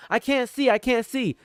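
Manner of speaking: high, whiny mock panic; squeaky panicked victim. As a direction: voice the blinded enemy, hammed up. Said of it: "They're gonna be struggling thinking".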